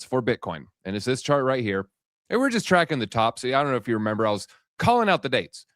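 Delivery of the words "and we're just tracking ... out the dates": winded, catching breath between phrases. Real, not acted. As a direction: talk while still panting from dancing. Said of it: "Sorry, I'm a little out of breath".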